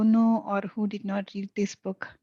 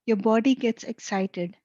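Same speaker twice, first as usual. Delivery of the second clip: measured, calm read to listeners with eyes closed; channeled reading; 3 dB louder than usual. Acted. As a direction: read it like a guided meditation. Reads channeled text, eyes closed.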